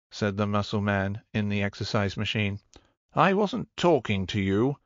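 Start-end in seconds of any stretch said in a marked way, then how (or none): 3.1-4.8 a curt rebuke, pitched higher; mildly snippy put-down; short. Acted. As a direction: shut down the interruption. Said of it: "said Mistress Vanya shortly".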